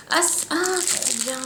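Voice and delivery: high, slow, delighted gasp; pleasantly surprised, lifting up. Real, not acted. Delighted by unboxed item. (ravie et surprise)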